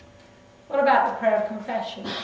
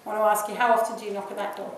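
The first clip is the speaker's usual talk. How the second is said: usual speaking voice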